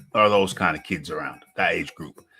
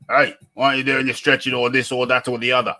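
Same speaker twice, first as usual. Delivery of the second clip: imitating a trainer's shout, slightly raised; mild retold shout; 5 semitones higher, 3 dB louder, faster than usual. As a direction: call out higher, like a coach chiding boxers, half-hearted. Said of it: "shout at everybody saying".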